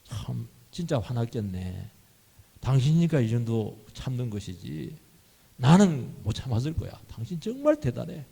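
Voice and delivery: calm an upset spouse with understanding, then admiration; 공감하며 달래듯. Acted. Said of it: "그래야 가라앉지요". (맞장구치며 달래듯)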